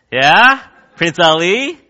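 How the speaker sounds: mock fanfare. Acting out a conqueror's fanfare.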